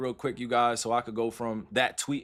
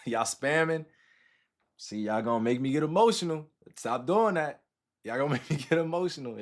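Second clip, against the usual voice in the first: laughing, touched. Real, not acted. Chat spams love, he laughs.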